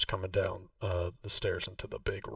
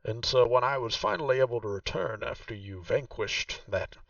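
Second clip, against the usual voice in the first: game master voicing Vaku, noticeably higher; Vaku's voice; 3 semitones higher, 4 dB louder than usual. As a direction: play the proud host showing her old home. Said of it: "and she says".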